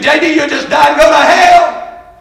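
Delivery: slow mock preacher's verdict; imitating stern preacher. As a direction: hand down the doom slowly. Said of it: "Well, he said".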